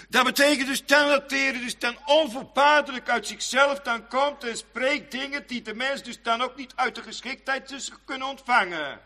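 normal talking voice

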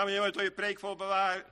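normal talking voice

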